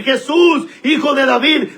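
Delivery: a mild retold shout to Jesus; mock shout. Blind man calling out to Jesus by the road, mild mock shout. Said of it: "él empezó a gritar y a decir".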